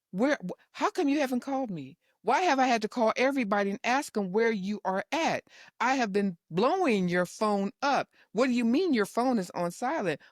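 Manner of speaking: high, fast worried nagging; fast fretful questions; mock nagging daughter. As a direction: pester mom like an anxious parent. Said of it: "Now it's like".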